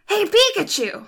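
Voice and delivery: high, animated cartoon boy; Ash voice. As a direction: call out like an excited cartoon kid. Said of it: "he's more animated".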